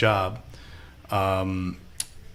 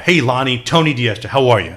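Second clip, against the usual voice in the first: louder, lightly imitated big greeting; light-the-room-up guy; 2 semitones higher, 7 dB louder than usual. Boss walks in and introduces himself, lightly voiced big personality. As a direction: greet him like someone who lights up the room. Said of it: "light the room up guy".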